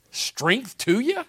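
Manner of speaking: slow, high, disbelieving repeat; mock the weak blessing in disbelief; incredulous mock echo. Preacher mocking the chaplain's blessing, disbelieving. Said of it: "And I couldn't believe it".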